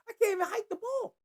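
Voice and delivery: high, laughing disbelief; real laugh breaking into the words. Real, not acted. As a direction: laugh through it, pitch way up. Laughing at own bit.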